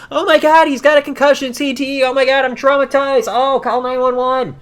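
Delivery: high, loud hammed-up freak-out; mock panic. Imagined crowd member reacting to a head kick, mock panic.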